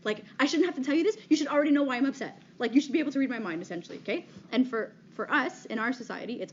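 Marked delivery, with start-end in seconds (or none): 0.4-3.6 mock mad girlfriend. Girlfriend scolding her boyfriend for not reading her mind, mock annoyed. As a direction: play the upset girlfriend who expects him to read her mind, half-joking. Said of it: "she's just really mad".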